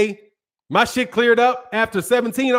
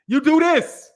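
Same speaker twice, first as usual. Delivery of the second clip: higher, with lips kept nearly shut; mouth barely open; 4 semitones higher, slower than usual. Shown as a demonstration. Demonstrating how to hide bad teeth, mouth barely open. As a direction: talk with the teeth hidden. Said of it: "don't keep your mouth hanging open".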